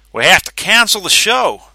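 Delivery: high, loud solemn proclamation; presidential announcement. Acted. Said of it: "in the tone he reserved for presidential announcements".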